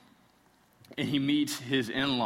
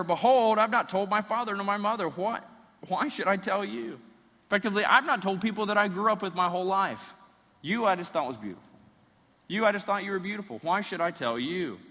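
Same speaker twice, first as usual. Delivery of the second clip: exasperated retort; 6 semitones higher, 3 dB louder than usual. Acted. Samson rebuffs his wife.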